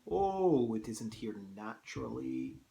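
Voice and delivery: put-on Russian accent sliding into Scottish; slipping into Scottish. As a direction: attempt Russian, land on Scottish. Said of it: "slipping into a Scottish accent".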